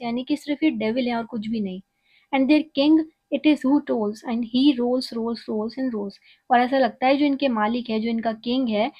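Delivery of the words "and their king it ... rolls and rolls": slow, measured poetry reading; poem recital. Acted. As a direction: read each line out slowly like a recital. Reads poem aloud slowly. (धीमी, नपी-तुली कविता पाठ)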